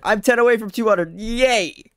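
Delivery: loud, high, delighted cheer; real excitement. Real, not acted. Streamer ten followers short of two hundred, excited. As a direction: celebrate it out loud, pitch jumping up.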